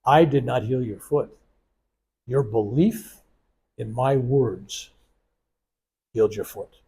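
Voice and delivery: a hint of a grave teacher, pausing between phrases; solemn guru. Guru turning round to correct his grateful student, solemn. Guru's solemn reply acted out.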